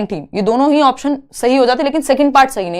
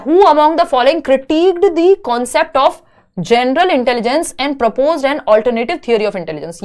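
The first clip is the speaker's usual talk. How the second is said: slow, deliberate read-aloud of an exam question; 2 semitones higher, much slower than usual. Acted. Teacher reading a test question to students, slow and deliberate. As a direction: read it out word by word for the class.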